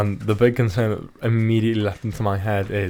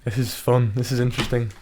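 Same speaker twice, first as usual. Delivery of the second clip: mock enthusiasm, barely raised; sarcastic. Real, not acted. Reacting to a game card, sarcastic. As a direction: say it with dry, understated sarcasm.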